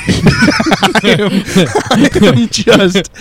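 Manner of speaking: mock huffing and puffing; out of breath. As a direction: gasp through it, winded. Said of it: "I'm huffing and puffing".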